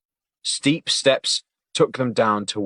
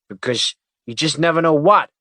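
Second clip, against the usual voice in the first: higher, louder, questioning rise on what; asking; 6 semitones higher, 7 dB louder than usual. Acted. Agent to partner who trailed off, asking. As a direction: push him to finish the sentence. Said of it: "Tanner asked".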